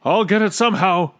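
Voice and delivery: high, loud determined yell. A narrator's reading. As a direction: yell it out urgently. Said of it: "he yelled".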